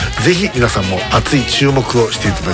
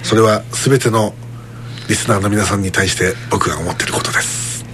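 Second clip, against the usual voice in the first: sincere cool guy; 4 semitones lower, 4 dB quieter than usual. Pretend. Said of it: "二の線の".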